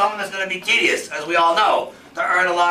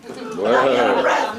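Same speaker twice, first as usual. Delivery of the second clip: slow, much lower, laughing mock take; lower mock repeat; 8 semitones lower, slower than usual. To the seminar crowd about stairs, slow low mock. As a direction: drop low and drag it out with a laugh.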